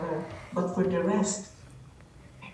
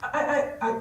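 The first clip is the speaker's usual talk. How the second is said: dismayed; 11 semitones higher, faster than usual. Real, not acted. Can't hear the speaker again.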